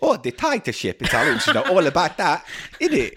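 comic put-on Italian accent. Mocking the Italian brand's rubber slogans in an Italian accent. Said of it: "Italian accent".

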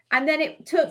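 breaking up over a bad line; garbled, cutting-out call audio; bad connection. Real, not acted. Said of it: "Sorry, Andrea, I can't hear you".

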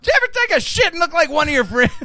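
mock emcee killer line; imitating the MC. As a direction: nail it like a hack closer. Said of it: "then he ends it with".

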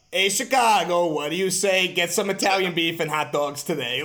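teasing Chicago accent, friend imitating; mock Chicago accent. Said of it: "making fun of a song and the accent".

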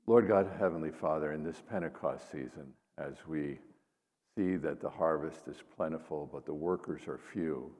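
measured, solemn prayer. Acted. Leads an opening prayer.

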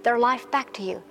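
earnest spoken prayer over music. Acted. Pastor praying for the women watching, earnestly. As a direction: pray over them steadily.

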